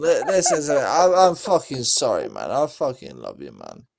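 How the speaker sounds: mock sweary apology, laughing through it; a half-laughing Caps, sorry and loving; Caps impression. S0 apologising to his mate in mock Caps voice. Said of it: "our best impersonation of you".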